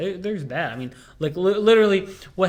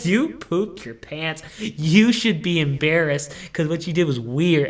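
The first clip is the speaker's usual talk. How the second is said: mock scolding a baby; 4 dB louder, slower than usual. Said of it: "I go".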